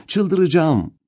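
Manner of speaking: anguished shout, high and loud. A narrator's reading. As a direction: yell it out in despair. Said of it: "diye bağırıyordu". (çaresizlikle bağırarak)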